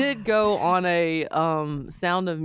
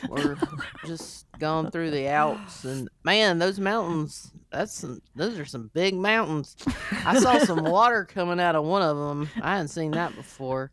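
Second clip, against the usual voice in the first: dopey cartoon bellow; 3 semitones lower than usual. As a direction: plod through it like a dim troll. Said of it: "my accent would have been thicker".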